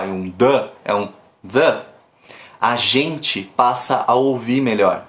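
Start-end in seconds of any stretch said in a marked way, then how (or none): 1.5-1.8 "the" com th suave e vogal relaxada, não D; "the" sem soar como D nem da; relaxed th vowel. Shown as a demonstration. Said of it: "não é um D e nem um da". ("the" relaxado, sem D)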